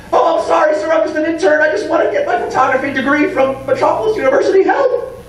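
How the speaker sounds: high, timid, pleading; meek pleading intern. Retold or imitated. Jimmy Olsen apologising to the bully, high timid plea. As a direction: squeak out an apology to the boss.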